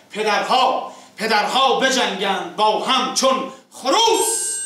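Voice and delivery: declaimed rhyming verse, sinking line ends; epic teahouse storyteller. Acted. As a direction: recite the couplets like a naqqal. Reciting verse summary.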